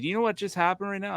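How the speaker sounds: high, amazed question; incredulous. Retold or imitated. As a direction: ask it in disbelief. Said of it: "He's like".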